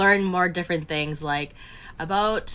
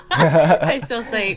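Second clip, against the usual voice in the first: laughing; 6 dB louder, much slower than usual. Real, not acted. Laughing while disagreeing about pizza.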